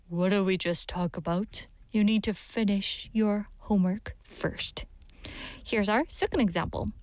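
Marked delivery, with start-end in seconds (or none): 0.1-4.8 lightly voiced parent, lower and firm; mildly firm reminder to a child; stern parent. Parent answering a child who wants one more game, mildly stern.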